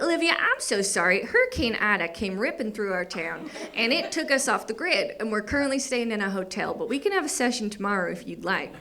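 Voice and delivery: lightly voiced Louisiana therapist apologizing; Tara, apologetic therapist. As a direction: explain yourself to a client, lightly in character. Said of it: "and she's like".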